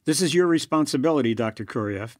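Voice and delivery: barked. Acted. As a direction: bark the blame at him. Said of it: "barked Chernov".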